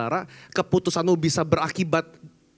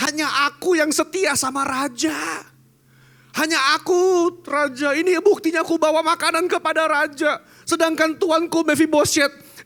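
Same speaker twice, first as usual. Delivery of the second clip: much higher and louder, wheedling servant; hammed-up flatterer pleading to the king; fawning servant; 13 semitones higher, 7 dB louder than usual. Ziba flatters king, betrays master. (hamba penjilat, jauh lebih tinggi dan keras)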